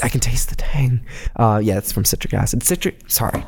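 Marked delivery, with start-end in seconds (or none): 0.0-1.0 hushed, savoring food critic; mock food critic. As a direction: whisper it like a connoisseur tasting. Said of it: "pretend to be a food critic".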